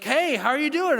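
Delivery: high, loud phone hello; imitated friendly greeting. Friends phoning a dad in the waiting room, imitated loud greeting. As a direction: act out friends calling with a big hello.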